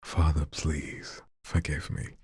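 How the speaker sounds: showing viewers how he plays the plea; dramatic plea. Shown as a demonstration. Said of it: "You see what I'm doing?".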